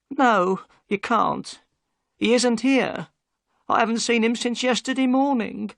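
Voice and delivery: high, guarded housewife at the door; Mrs Smith, wary wife. Acted. Mrs Smith answers Holmes.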